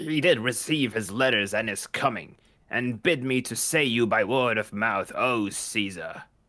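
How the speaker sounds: slimy-sounding voice. Reading the servant's lines in a play reading: slimy voice. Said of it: "he's gonna have a slimy voice".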